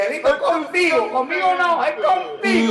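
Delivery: high-pitched, insistent retort; retold protest. Retelling what he told Angelito, high mock protest. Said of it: "y le dije".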